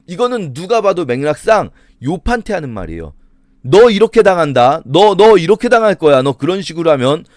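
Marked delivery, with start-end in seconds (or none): 3.6-7.2 acted stern warning, pressing harder. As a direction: warn as Job's accusing friend. Acts out friend threatening Job.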